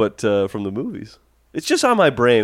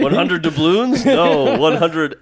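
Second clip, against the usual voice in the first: laughing pirate voice; 4 semitones higher, slower than usual. Pretend. Joking pirate talk.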